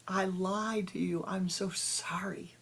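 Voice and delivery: slow, tearful repeated apology; crying and wailing. Acted. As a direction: weep the apology out. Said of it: "she cries and she wails and she weeps".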